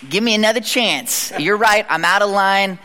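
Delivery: retold plea for another chance; repentant plea. Man begging God for another chance, repentant. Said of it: "I remember repenting and being like".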